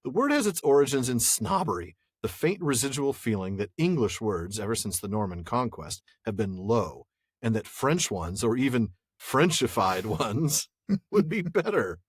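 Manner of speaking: deliberate, measured quote in his manner; Shippy. Acted. Host rereads a quote on snobbery, lightly in the author's voice. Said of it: "I can only hear him talking".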